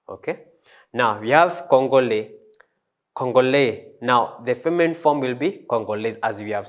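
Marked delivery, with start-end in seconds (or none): 1.7-3.9 CONGOLAIS ending on open -lay; masculine pronunciation. Shown as a demonstration. Teacher repeating masculine form, open French ending. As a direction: say Congolais with silent final s. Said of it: "we pronounce it as Congolais".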